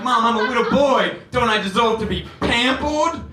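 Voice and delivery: put-on pleading little-boy voice to mom; kid voice Ralphie.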